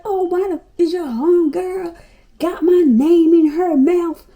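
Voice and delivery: high, loud, drawn-out nosy caller; a caller demanding who talks about her; mock accusing caller.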